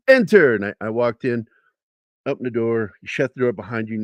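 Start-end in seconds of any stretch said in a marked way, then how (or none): 0.1-0.6 loud, high one-word order; imitated military shout; drill sergeant's command. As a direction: order him in from behind a door. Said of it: "He says".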